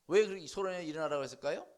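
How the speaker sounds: ordinary talk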